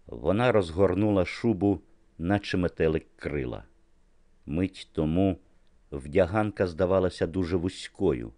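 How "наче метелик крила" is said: ordinary delivery, nothing marked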